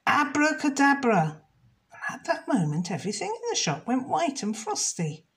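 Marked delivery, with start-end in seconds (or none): 0.1-1.4 higher, louder spell-casting; witch spell. Acted. The witch casts a spell on the shop, high and grand. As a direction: cast it with a flourish. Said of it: "waved her wand and said".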